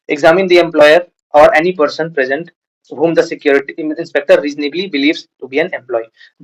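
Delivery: dictating the law word by word; slow statute reading. Acted. Teacher reads the Gratuity Act to students, slow dictation. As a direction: read the legal text out slowly and deliberately.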